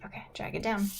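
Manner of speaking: soft unvoiced whisper. Real, not acted. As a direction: whisper the question gently. Teacher whispers instruction.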